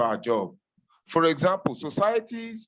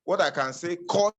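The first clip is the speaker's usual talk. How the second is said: breaking up over a bad connection; choppy, cutting-out audio; glitchy robotic call. Real, not acted. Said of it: "your audio is breaking bad".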